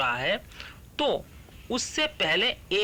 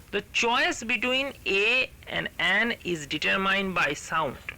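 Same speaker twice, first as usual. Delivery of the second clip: slow, careful textbook reading; deliberate classroom reading; reading the rule aloud; much slower than usual. Shown as a demonstration. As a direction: read the rule out word by word.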